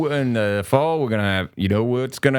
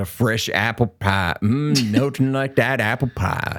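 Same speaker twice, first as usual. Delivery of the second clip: put-on Southern gentleman accent, sketch style. Quoting a comedy sketch about pie: Southern gentleman accent. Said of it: "default Southern gentleman, like, accent".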